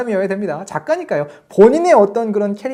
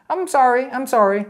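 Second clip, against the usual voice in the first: sing-song mocking echo of an apology; mock Louis by parroting him; teasing mimicry; 6 semitones higher, much slower than usual. Sherry teasing Louis by parroting his apology, mocking. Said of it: "약간 놀리는 거죠".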